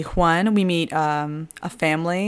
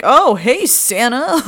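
cheery greeting; 9 semitones higher, 6 dB louder, slower than usual. Retold or imitated. Dad greets stranded Santa.

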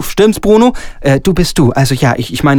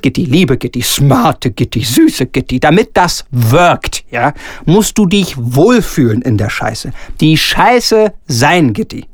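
honeyed flattery; 2 semitones lower, slower than usual. Acted. Director flattering Gitti into the role, slow honeyed coaxing. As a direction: draw each word out to seduce her into the idea.

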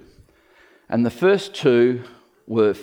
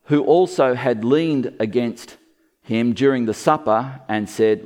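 usual speaking voice

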